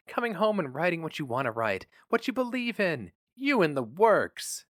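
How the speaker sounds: a hint of a loving wife urging him; tender wife. A narrator's reading. Nan begging her husband to stay happy, tender.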